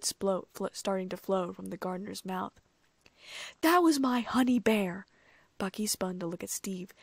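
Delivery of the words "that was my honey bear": louder, higher burst of protest; outraged cry. A narrator's reading. Bucky rages at his honey bear's killer, outraged cry.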